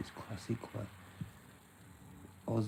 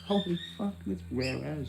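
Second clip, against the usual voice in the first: louder, higher holy fuck; excited exclamation; 6 semitones higher, 5 dB louder than usual. Real, not acted. Reacting to how rare he is, excited. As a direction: blurt it out amazed.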